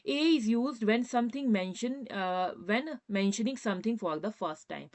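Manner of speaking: very slow, word by word; slow dictation. Shown as a demonstration. Teacher dictating the grammar rule to students, very slowly. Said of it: "देखिए".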